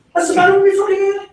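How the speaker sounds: high, fast indignant wife voice; mock wife. Wife snapping back about his hair, high and fast. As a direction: squeal it out offended and rushed. Mocking wife's indignant reply.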